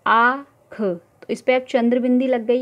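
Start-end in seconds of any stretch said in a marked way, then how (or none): 0.0-0.8 आँख with a nasalised आँ, whispered; nasal vowel demo. Shown as a demonstration. Teacher models the nasal vowel in आँख. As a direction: breathe out आँख through the nose. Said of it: "उच्चारण करके देखिए आप".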